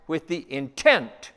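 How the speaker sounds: intent stretched slowly and firmly; stress on intent. Real, not acted. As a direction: lean hard on the word intent. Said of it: "and I emphasize that word".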